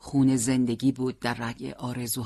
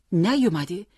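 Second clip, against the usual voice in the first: نیومده louder, rising into a question; disbelieving echo; 5 semitones higher, 5 dB louder than usual. A narrator's reading. Father echoing the news, disbelieving rise on نیومده. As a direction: throw نیومده back as a startled question.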